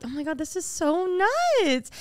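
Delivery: high, drawn-out giddy gushing; mock amazement. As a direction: stretch it out in girly disbelief. Acts out the girls' amazement.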